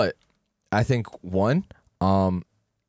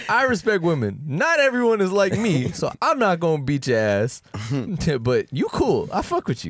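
high mocking voice; 8 semitones higher than usual. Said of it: "He was like".

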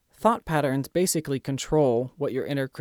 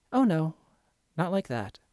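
calm kindergarten teacher; 2 semitones higher than usual. Shown as a demonstration. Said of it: "respond like that calm kindergarten teacher".

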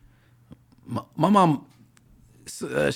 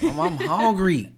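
put-on whiny kid; 3 semitones higher, slower than usual. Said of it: "I go home like".

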